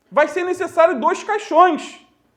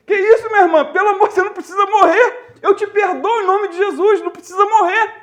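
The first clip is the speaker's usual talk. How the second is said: hammed-up panic, a little higher and fast; alarmed pastor; 5 semitones higher, faster than usual. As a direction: rush it out like a startled pastor. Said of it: "o pastor ficou apavorado".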